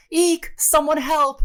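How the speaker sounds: very high, loud mock squeal; hammed-up falsetto cry for help; woman yelling for help. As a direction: shriek like a damsel in distress. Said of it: "and she yells".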